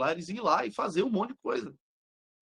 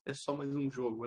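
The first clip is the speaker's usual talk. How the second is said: soft, understated imitation of a calm player; lightly acted unbothered calm; serene; 2 semitones lower, 10 dB quieter than usual. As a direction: shrug it off quietly, all business. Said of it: "Completamente sereno".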